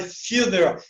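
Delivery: "funeral" opening with FIU; quick English "funeral" with an I glide before the U; U as "you". Shown as a demonstration. Teacher explaining the vowel, "funeral" as FIU-neral. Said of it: "Então é you".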